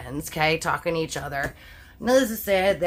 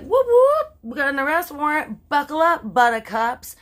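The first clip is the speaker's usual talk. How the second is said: high, loud mock police voice; hammed-up cop barking orders; 7 semitones higher, 4 dB louder than usual. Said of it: "Popo's like".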